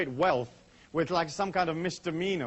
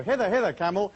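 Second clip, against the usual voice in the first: light mock-biblical calling, raised pitch; biblical camel call; 3 semitones higher, 3 dB louder than usual. Speaker jokingly calls a stubborn camel to the gate, mock-biblical. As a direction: call a camel in hammed-up old-time speech. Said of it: "that's how they talk in biblical times".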